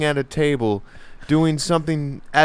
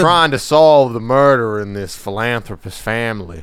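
mock Foghorn Leghorn; 4 dB louder than usual. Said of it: "talking like Foghorn Leghorn".

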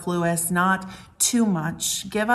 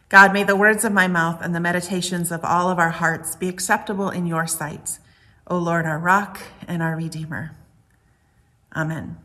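prayer. Acted. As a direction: pray it earnestly to God. Pastor leads a prayer.

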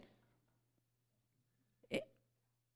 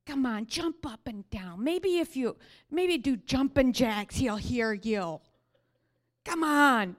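taunting; 2 semitones higher, 6 dB louder than usual. Retold or imitated. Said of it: "my flesh really likes that story".

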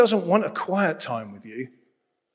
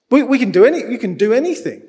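higher and louder, pressing the point home; fervent preaching; 7 semitones higher, 7 dB louder, faster than usual. Real, not acted. To the church, fervent cry about free will. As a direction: preach it full out, almost shouting.

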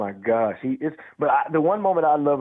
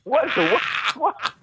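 surprised; 13 semitones higher, slower than usual. Retold or imitated. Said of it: "I'm like".

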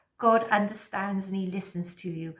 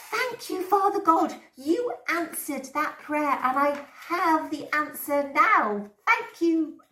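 much higher, overjoyed thanks; excited thanks; 6 semitones higher than usual. Pretend. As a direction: thank God in thrilled delight. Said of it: "you'll be able to say".

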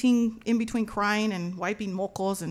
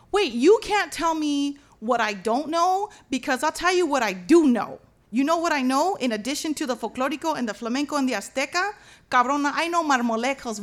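emphatic retort, building to a loud challenge; mad, defiant; 4 dB louder than usual. Retold or imitated. Dancer telling off whoever doubted her, defiant. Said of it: "just makes me mad".

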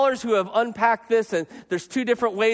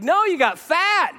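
higher, slow, blunt put-down; a fan bluntly correcting the pastor; blunt deadpan jab; 7 semitones higher than usual. Retold or imitated. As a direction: drop it flatly like a verdict.

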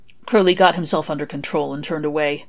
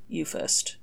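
hushed reply; 9 dB quieter than usual. Acted. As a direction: barely voice it after a silence. Crowley after long silence.

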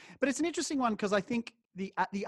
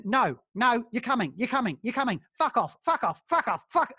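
put-on childish tantrum; 4 semitones higher than usual. Don refusing to take no from Gal, childish tantrum. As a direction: rant like a furious child. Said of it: "he's like a child, just going".

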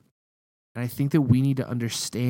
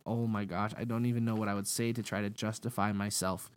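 embarrassed mutter; 9 dB quieter than usual. Retold or imitated. Speechless before Jesus.

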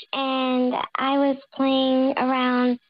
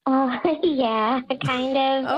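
nervous voice changer; much slower than usual. Real, not acted. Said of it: "you sound nervous".

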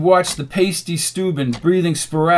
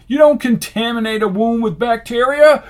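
high, loud lecture; angry scolding; 7 semitones higher, 6 dB louder than usual. A narrator's reading. Rasputin rebukes Dice over the wound, angry. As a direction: scold him as incompetent.

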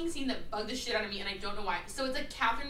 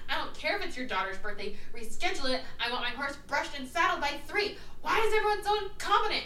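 imitating a bossy rant, pitch jumping up at the end; half-hearted retold tirade; mock yelling; 4 semitones higher than usual. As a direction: play a spoiled girl berating staff, not at full volume. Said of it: "she's yelling at her".

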